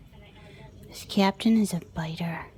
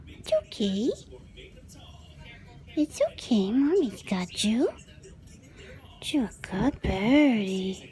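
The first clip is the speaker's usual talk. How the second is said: soothing pet-talk. Real, not acted. Comforting bird.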